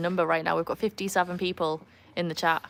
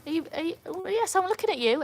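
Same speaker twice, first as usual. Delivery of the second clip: high playful pet voice; talking to the dog in a high sing-song; 11 semitones higher than usual. Real, not acted. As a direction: coo at the dog. Teasing the dog on camera.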